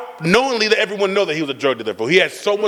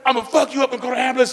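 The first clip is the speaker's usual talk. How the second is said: high-pitched retold threat from an angry mother; mad mom; 6 semitones higher than usual. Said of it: "My mom gets mad".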